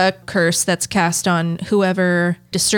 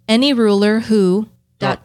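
ominous curse reading; 4 dB louder than usual. Acted. Reading tomb curse aloud.

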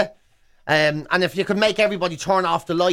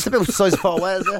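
laughing; faster than usual. Real, not acted. Echoing with laughter.

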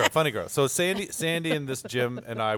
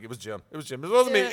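mock pleading; 2 semitones lower than usual. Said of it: "I'm pleading it".

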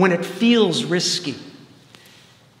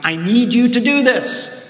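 voice of God; 6 semitones higher, 5 dB louder than usual. Retold or imitated. God voiced in retold story.

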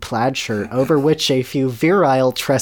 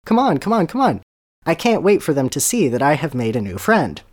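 eager coaxing; 3 semitones higher than usual. Acted. Ronald pulling Harry to table.

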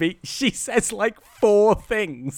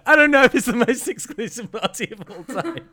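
higher, laughing through the words; real laugh breaking into a sceptical remark; amused doubt; 4 semitones higher than usual. Real, not acted. Host doubting an exclusive guest list, laughing disbelief.

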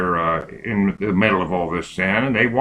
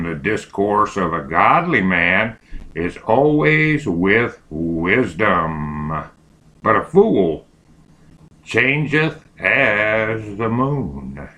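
dictating; slower than usual. Shown as a demonstration. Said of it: "Capital M, period".

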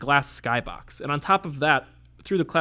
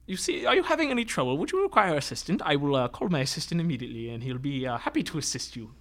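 squat little tailor voice. Acted. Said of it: "speaks in a voice like this".

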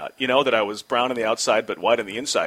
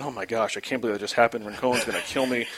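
anxious inner voice; 3 semitones lower, 6 dB quieter than usual. Retold or imitated. Panicked inner thoughts.

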